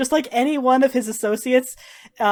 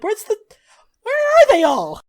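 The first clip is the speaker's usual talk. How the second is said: much higher and louder, frantic; panicked shout; 12 semitones higher, 7 dB louder than usual. Acted. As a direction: yell it out searching the crowd. Slaver frantically looks for carts.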